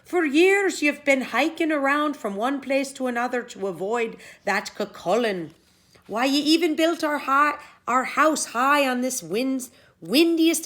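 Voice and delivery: a wife begging her man to stand and fight; Una, pleading wife. Acted.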